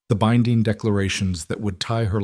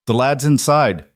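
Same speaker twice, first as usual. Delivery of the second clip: gruff Scottish burr, higher and louder; thick Scottish accent; 4 semitones higher, 3 dB louder than usual. A narrator's reading. Duncan greeting the bride at the wagon, thick Scottish accent. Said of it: "he said in his thick accent".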